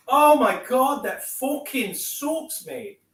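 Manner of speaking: high, stretched-out disbelief, slow; dismayed squeal. Real, not acted. Vlogger missing his first shot, high dismayed wail.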